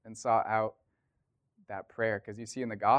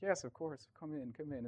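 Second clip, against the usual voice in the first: higher, soft welcoming voice; retold welcome; 5 semitones higher, 7 dB quieter than usual. Hosts inviting the visitors in, soft welcome. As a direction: lightly imitate eager hosts.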